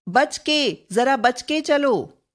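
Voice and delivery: a light mock warning. Shown as a demonstration. Teacher voicing a warning example, mild caution. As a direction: caution someone to watch out. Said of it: "चेतावनी सूचक".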